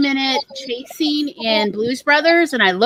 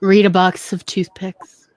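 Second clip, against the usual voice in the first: flat, slow brush-off; dismissive; 5 semitones lower, slower than usual. Real, not acted. Telling listeners off, slow and dismissive. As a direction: dismiss them, slowly. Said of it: "it just sounds like you were being so, like, dismissive".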